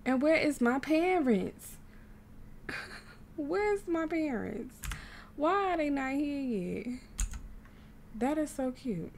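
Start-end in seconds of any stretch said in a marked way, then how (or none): 0.0-1.8 slow, drawn-out complaint; put-out complaint. Real, not acted. Player missing the parents at the party, put-out. 3.4-6.9 higher, drawn-out plaintive question; plaintive complaint. Real, not acted. Player asking why parents are not here yet, plaintive. Parents still missing from party.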